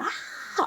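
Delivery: airy, voiceless imitation scream; mock scream. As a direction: act out a scream without full voice. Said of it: "like, I screamed".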